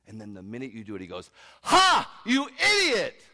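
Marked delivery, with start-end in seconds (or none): 1.6-3.2 very high, loud jeer; gloating shout, pitched way up; mocking enemy. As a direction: burst out in scornful ridicule at your victim. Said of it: "he laughs at you".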